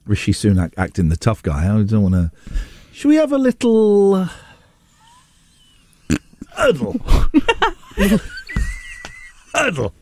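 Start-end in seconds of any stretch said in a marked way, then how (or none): 2.9-9.9 silly high voice. Acted.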